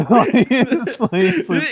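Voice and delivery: talking through high laughter; laughing. Real, not acted.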